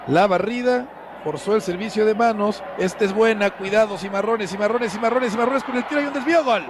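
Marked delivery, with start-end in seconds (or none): 3.5-6.4 excited commentary. Real, not acted. Live goal chance play-by-play. 6.4-6.6 shouted goal call. Real, not acted.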